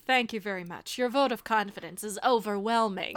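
understated, deadpan mock gratitude; dry sarcasm. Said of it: "it's just, like, the dryness".

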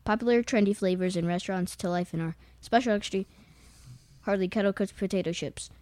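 flat, grudging read of the bag; reluctant reading. Real, not acted. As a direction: read it out like a chore. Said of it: "Read something".

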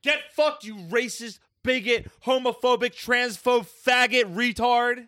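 high-pitched, punchy string of insults; high, emphatic name-calling; heated insults. Real, not acted. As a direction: hurl each insult one after another. Hurling insults in a heated argument.

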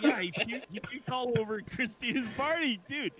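high-pitched, breaking into laughter; laughing reply. Real, not acted. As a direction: tell it through a real laugh. Answers crude joke while laughing.

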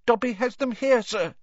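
very high squeaky elf voice; Dobby, eager confession. Acted. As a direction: own up in a small elf squeak.

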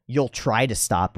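slow mocking echo; drawn-out sarcastic doubt; scoffing, dismissive. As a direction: repeat it back in imitated disbelief. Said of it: "it got scoffed at and dismissed".

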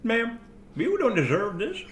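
a hint of silly woman, slightly high; stupid woman's voice. Shown as a demonstration. Showing how the woman sounded, lightly put-on stupid voice. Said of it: "She sounded like this".

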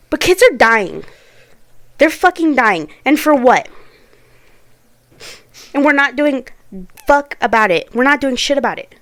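loud, forceful outrage; angry protest. Real, not acted.

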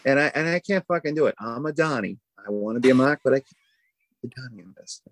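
lightly put-on Boston accent; mock Boston tough-guy talk. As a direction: playfully try on a Boston local's accent. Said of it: "it's my Boston, uh, equivalent test".

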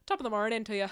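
stereotyped Irish greeting with a laugh; mock Irish accent. American teasing herself over an Irish classmate, mock Irish accent. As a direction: put on a joking Irish accent.

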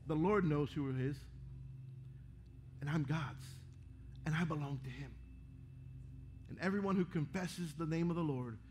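hushed confession. Acted.

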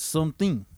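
"something" with a full th and ringing -ing; clear th. Shown as a demonstration. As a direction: pronounce the th in "something" carefully. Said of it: "You need to put the H in there".

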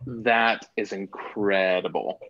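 slurping soup while talking; eating soup. Real, not acted. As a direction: talk around a loud slurp of soup. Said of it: "That was a very loud slurpy sound".

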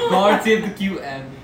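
British accent. Shown as a demonstration. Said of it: "British accent".

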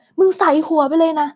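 imitating a teacher snapping at a pupil, slowing down at the end; half-acted scolding of a child; retold teacher yelling. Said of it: "ตะโกนตะคอกใส่เด็กว่า".

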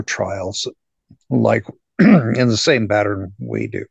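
hoarse, losing voice; rough strained voice, losing voice. Real, not acted. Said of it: "Sorry, I'm losing my voice".

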